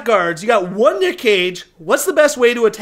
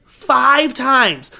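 dramatic emphasis; 2 semitones higher, much slower than usual. Real, not acted. Dramatic count of the wounds.

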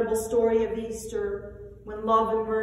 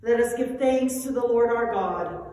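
calling out; 5 dB louder than usual. Acted. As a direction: call the people to lift their hearts. Liturgical call to congregation.

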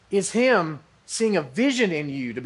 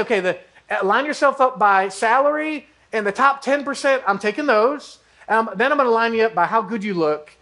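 mock picky recruiter; 3 semitones higher than usual. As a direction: lay out the cut like a vain team owner. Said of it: "look at the crowd and say".

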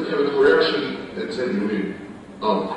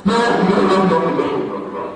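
hasty correction; 5 semitones higher, faster than usual. Acted. Hurriedly correcting the other's misunderstanding.

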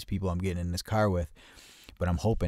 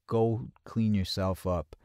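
retold slow insistence; slower than usual. Friend insists, repeating the order.

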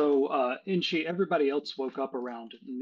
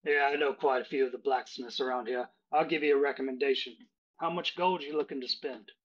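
Cockney barkeep. Acted. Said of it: "he says".

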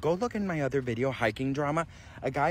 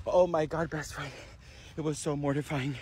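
out of breath; 5 dB quieter than usual. Real, not acted. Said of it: "Let me catch my breath, 'cause I'm hyperventilating".

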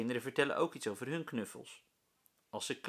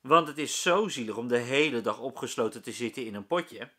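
louder cheeky call; 8 dB louder than usual. A narrator's reading. Rolf calls out to the teacher, louder. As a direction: tease the teacher loudly. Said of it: "roept Rolf".

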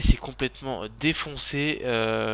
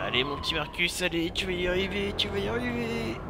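pleading pep talk climbing steadily higher; anxious self-encouragement; 7 semitones higher than usual. Real, not acted. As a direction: start near normal, climb to a strained high plea. S'encourage en pleine poursuite. (s'encourager, la voix monte dans l'aigu)

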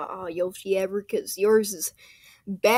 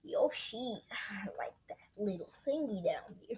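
whispering; 11 dB quieter than usual. Acted. Hushed play.

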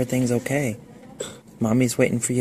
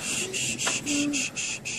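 soothing shushing; 13 semitones higher, 7 dB quieter, slower than usual. Real, not acted. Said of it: "soothing child to sleep".

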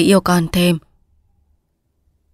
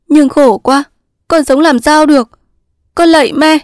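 high, loud anguished plea; wailing, distraught daughter; desperate begging; 9 semitones higher, 5 dB louder than usual. Acted. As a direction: beg your mother in despair, pitched right up. Despairing daughter begs mother.

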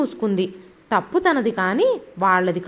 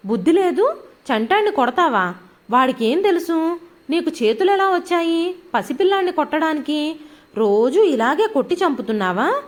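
angry shout; 5 semitones higher than usual. Acted. Mother shouting at sister-in-law for hitting baby, furious. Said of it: "కోపం ఆపుకోలేక అరిచింది".

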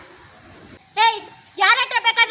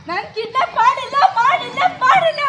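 loud denial; 2 semitones higher, 5 dB louder than usual. Acted. Accused woman denies kidnapping.

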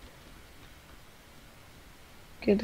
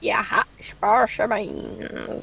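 slow, drawn-out cowboy drawl; demented cowboy; slower than usual. Pretend. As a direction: stretch the vowels like a crazed cowboy. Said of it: "sounds like a demented cowboy".

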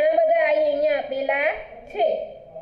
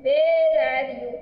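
sing-song nursery rhyme, line repeated rising then falling; rhyme recitation; slower than usual. Acted. Teacher reciting the finger rhyme to pupils, sing-song recitation. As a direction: recite it for children with drawn-out line endings.

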